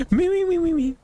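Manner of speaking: high giggly chant of "me"; sing-song it through a laugh. Real, not acted. Streamer laughing, chanting "me" up high.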